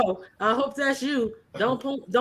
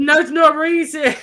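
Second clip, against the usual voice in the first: louder, slow, drawn-out name; excited call-out; 6 semitones higher, 9 dB louder, slower than usual. Real, not acted. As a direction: stretch the name out, amused. Laughing, calling out the name.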